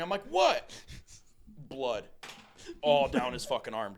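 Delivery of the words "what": high, loud startled "What?". Retold or imitated. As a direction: snap back high in surprise. Startled reply to yelled name.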